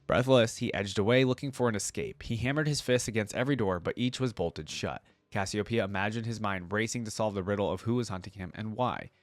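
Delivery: measured dramatic lore reading; story narration. A narrator's reading. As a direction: read it like a fantasy audiobook. Reads the short story aloud.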